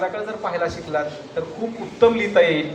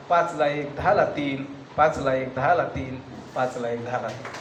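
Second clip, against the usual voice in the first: fading echo; 6 semitones lower, 6 dB quieter than usual. Acted. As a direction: lower and softer with each repeat, dying away. (हळूहळू विरत जाणारा आवाज)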